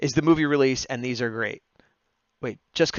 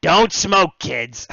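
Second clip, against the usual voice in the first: loud, higher punchline warning; PSA warning; 5 semitones higher, 10 dB louder, much slower than usual. Retold or imitated. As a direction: bark the moral at the kids. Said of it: "anti-smoking".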